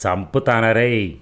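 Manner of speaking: a mild mock roar, slow; roaring threat. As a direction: drag out the death threat. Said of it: "ఇల్లు అదిలేలా అరిచాడు". (నెమ్మదిగా గర్జించే బెదిరింపు)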